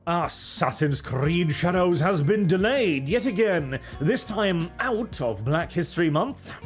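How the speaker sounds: put-on British newsreader accent; fake British accent. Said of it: "Arch literally fakes his accent".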